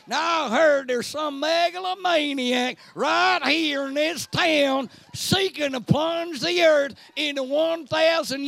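lightly voiced hillbilly farmer ready to fight; country farmer hero. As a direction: play the pitchfork-waving farmer, shouting.

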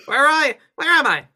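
loud, high dramatic cry; dramatic awakening. Pretend. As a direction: shout it like a monster coming alive. Revived Disney voice continues.

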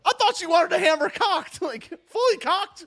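high loud goofy reply; high silly mock voice. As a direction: play it coy and silly. Voicing DePape joking.

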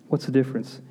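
quiet echo. Shown as a demonstration. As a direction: let the question sink in softly. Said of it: "But what's the difference?".

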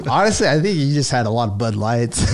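chuckling as he tells it; laughing. Real, not acted. Telling his friend about the beer, laughing.

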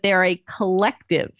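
"collective" set apart, followed by a pause; stress on collective. Real, not acted. Host describing the scholars' group to listeners, stressing "collective". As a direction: lean on "collective", then leave a beat. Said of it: "put emphasis on that word collective".

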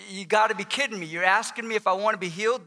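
understated, incredulous sarcasm; dry disbelief, lightly acted; a little sarcastic. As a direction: question him as if he must be joking. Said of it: "if he was a little sarcastic".

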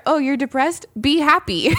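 lightly voiced glib advice; a hint of breezy, dismissive cheer; mock dismissive. Friend mocks people who brush off depression, breezy. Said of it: "people are like".

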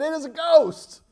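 terrified cry. Acted. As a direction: cry it out like frightened fishermen. Terrified disciples quoted.

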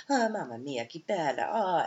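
mock Italian delight, Mamma Mia; imitating excited Italians. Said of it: "they were so excited".

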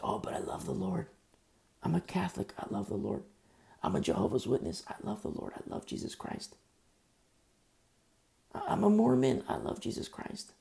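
breathy mocking whisper of a self-proclaimed believer; mock pious whisper. Preacher mimicking professing believers in a mock whisper. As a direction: mimic the churchgoer in a hushed, mocking voice.

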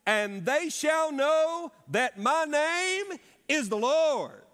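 loud, slow, booming preacher reading; full preacher voice with the congregation. Shown as a demonstration. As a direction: thunder it from the pulpit. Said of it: "I'd like to hear your preacher voice".

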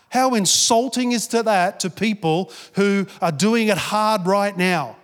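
a touch of mock outrage; indignant rebuke. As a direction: pastor rising in indignation. Pastor rebukes girl, voice rising.

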